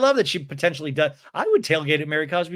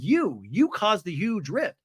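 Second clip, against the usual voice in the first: mock accusation, slightly raised pitch; Brittany; 3 semitones higher than usual. Woman blaming her friend, in slow mock accusation. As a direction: press slowly on "You", then state it. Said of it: "And Brittany's like".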